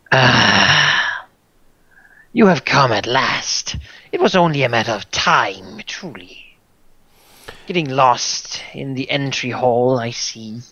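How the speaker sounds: lightly voiced menacing tyrant; a hint of a gloating tyrant; tyrant's voice. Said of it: "it will speak with the tyrant's voice".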